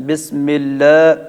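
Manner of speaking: بسم اللہ with slanted imala vowel, slow; slow demo of imala in بسم اللہ. Shown as a demonstration. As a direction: lean the vowel of اللہ toward e. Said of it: "یہ والا امالہ ہے".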